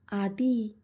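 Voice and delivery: a lightly bashful call of his name; shyly. Acted. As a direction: say his name with a touch of coy shyness. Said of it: "ती लाजून बोलली".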